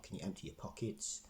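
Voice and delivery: an unvoiced, pointed mock of the guard's question; mimicking his tone. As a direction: imitate the suspicious guard, under your breath. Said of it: "it's the way he said it".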